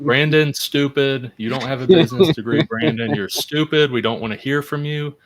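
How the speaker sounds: loud scornful exec berating Brandon; greedy exec voice. Pretend. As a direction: sneer it like a smug boss. Mock exec scolding Brandon.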